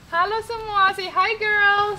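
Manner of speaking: bright, high camera hello; cheerful greeting. Real, not acted. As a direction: greet the viewers with excitement. Greeting viewers, coaxing Dido. (sapaan ceria ke kamera)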